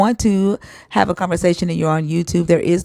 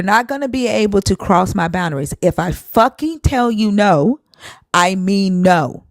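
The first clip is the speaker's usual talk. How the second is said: angry. Real, not acted. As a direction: lay down the boundary slowly and hard. Angry boundary-setting at caller.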